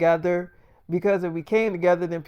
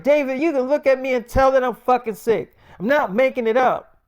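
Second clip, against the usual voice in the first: mock whiny girlfriend; 6 semitones higher, 4 dB louder than usual. Zendaya insisting she's sick.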